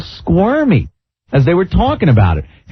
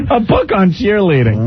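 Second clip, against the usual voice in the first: "book" stressed, higher and scoffing; mocking repeat; 5 semitones higher than usual. Shown as a demonstration. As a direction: repeat "A book on cheerleading" in disbelief.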